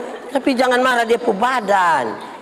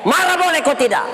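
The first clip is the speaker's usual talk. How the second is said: higher, quicker rousing question; insistent repeat; 6 semitones higher than usual. Real, not acted. Pastor asking congregation whether anger is allowed, insistent repeat. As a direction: press the crowd for an answer.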